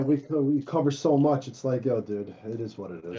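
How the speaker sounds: muffled, boxy mic sound; inside a fishbowl. Real, not acted. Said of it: "It sounds like you're in a fishbowl".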